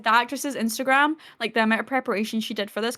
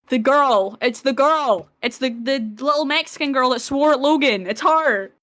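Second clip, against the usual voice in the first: excited reveal; 2 semitones higher than usual. Real, not acted. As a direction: announce her like a thrilling reveal. Fan thrilled at character's reveal.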